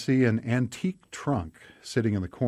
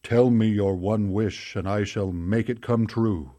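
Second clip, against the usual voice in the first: louder, commanding genie voice; deep booming genie; 4 dB louder than usual. Acted. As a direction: boom it out like a grand genie. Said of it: "With a deep, booming voice".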